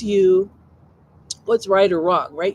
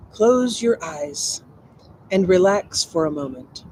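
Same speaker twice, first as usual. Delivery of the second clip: guided meditation. Acted.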